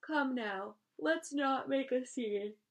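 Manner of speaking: high, slow soothing spider voice; calm him down, drawn out and high. A narrator's reading. Charlotte calming Wilbur.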